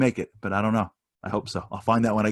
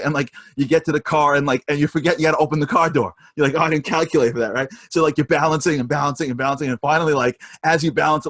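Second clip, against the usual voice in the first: animated build; 5 semitones higher, 4 dB louder than usual. Real, not acted. Comic juggling story builds.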